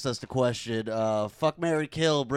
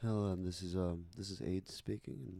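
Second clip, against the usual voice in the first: put-on velvety public-radio voice, lower and quieter; 7 semitones lower, 14 dB quieter than usual. Doing a radio-host bit into the microphone: Terry Gross voice. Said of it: "Should I get old Terry Gross from N P R?".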